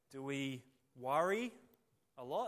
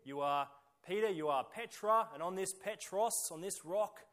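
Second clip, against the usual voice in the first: "Petra" and "Petros" each hit louder and higher; preacher spelling out the Peter and rock pun; wordplay stressed; 3 semitones higher, 5 dB louder than usual. Shown as a demonstration. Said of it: "there's a little wordplay going on here".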